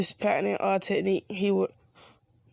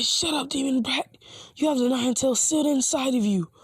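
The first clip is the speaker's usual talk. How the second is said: higher-pitched mock outrage; mild angry scolding; 6 semitones higher than usual. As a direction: scold him in a raised pitch. Villager berates the boy in story.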